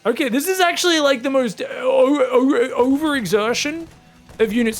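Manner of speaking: incredulous. Real, not acted. Incredulous at unit commitment.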